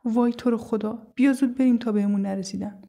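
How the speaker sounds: high, urgent, scared plea; frightened pleading. Acted. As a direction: beg a friend to get away quickly. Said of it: "با ترس دستمو کشید".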